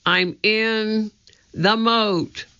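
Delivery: breathless, high and gasping; gasping for air. A narrator's reading. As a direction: sputter it out of the water. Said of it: "gasping for air".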